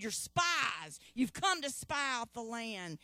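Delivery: mildly stern accusing voice; harsh accusation. Acted. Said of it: "he spoke harshly to 'em".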